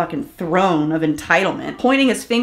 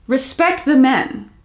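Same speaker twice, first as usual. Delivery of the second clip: mocking echo; 5 semitones higher, slower than usual. Mocking the clip's question.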